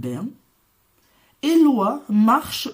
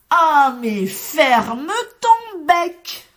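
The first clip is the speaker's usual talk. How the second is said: loud scolding shout, pitched high; shouting together; 8 semitones higher, 8 dB louder, much slower than usual. A narrator's reading. Farm animals shouting down the little chick, loud and high. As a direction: yell at the chick to shut up. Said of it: "recommencent à crier".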